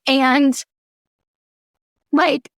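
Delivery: holding back tears while telling it; tearing up. Real, not acted. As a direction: voice lifted with real emotion on the edge of crying. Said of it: "I'm gonna tear up thinking about this".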